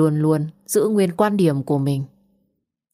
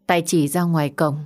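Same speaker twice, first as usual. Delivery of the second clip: usual speaking voice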